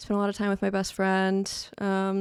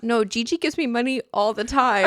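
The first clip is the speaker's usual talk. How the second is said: put-on child insisting; 4 semitones higher, 6 dB louder than usual. Niece insists, retold.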